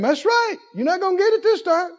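the devil taunting a sick man; mocking devil voice. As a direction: sneer it like a tempter. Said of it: "Thoughts came".

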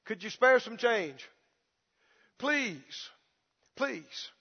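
quiet beggar's plea, fading out; acted timid begging; pleading beggar. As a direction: beg softly, trailing away. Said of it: "he's having to plead with people".

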